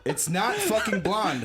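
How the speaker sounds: laughing. Real, not acted. Relieved laughing outburst.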